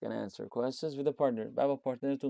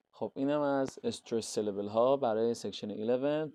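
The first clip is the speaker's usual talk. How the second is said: ordinary delivery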